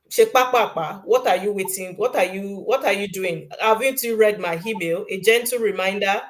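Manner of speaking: impatient scolding; mock pushy demand. Acting out a pushy applicant nagging, mock scolding. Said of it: "I will say it in Yoruba".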